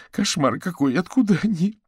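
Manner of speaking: high, loud cry of alarm; horrified exclamation. A narrator's reading. Margarita horrified by rats in kitchen. (испуганное восклицание)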